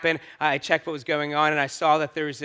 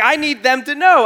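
retold insistence; 9 semitones higher, 6 dB louder than usual. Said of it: "But I was like".

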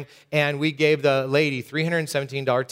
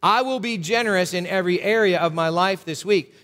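unison pledge. Shown as a demonstration. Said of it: "Would you say that with me".

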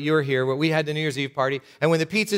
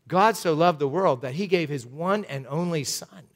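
right quote. Shown as a demonstration. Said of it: "that's not how it goes".

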